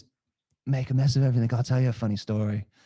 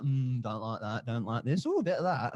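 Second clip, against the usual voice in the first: mock choosy; 4 dB quieter than usual. Imitating blokes picking porn.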